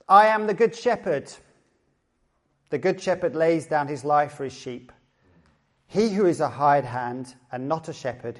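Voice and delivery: proclaimed gospel passage, strong opening easing down; scripture reading. Acted. Pastor reads the Good Shepherd passage to the congregation, deliberate scripture reading. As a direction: read out the verses deliberately, phrase by phrase.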